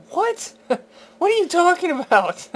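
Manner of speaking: very high squeaky what, then laughing; mock stunned reaction to the carpet theory; shrieked disbelief. Retelling his reaction to sex theory.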